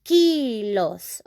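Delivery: "kilos" with long ee and s ending; Spanish plural pronunciation. Shown as a demonstration. Teacher repeating the plural, drawn-out "kilos" as KEEE-lohs. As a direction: stretch the first vowel of "kilos". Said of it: "we can say".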